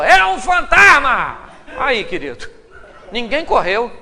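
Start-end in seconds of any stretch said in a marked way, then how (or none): 0.0-1.4 loud, slowed cry of terror; mock shout. Disciple in the dark boat, shouting in panic. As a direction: yell it like a spooked fisherman. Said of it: "Alguém gritou".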